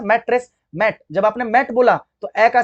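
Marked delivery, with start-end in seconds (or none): 0.0-0.5 मैट्रेस in two beats, मैट, then रेस; broken into syllables. Shown as a demonstration. Teacher showing students where it breaks, मैट्रेस said syllable by syllable. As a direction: separate the two halves of मैट्रेस. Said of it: "अभी break हो रहा है ना".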